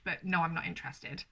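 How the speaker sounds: a polite but final no; mean it, no teasing; firm refusal. Retold or imitated. Imitating a girl who truly wants him gone, firm no. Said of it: "They're not playing hard to get".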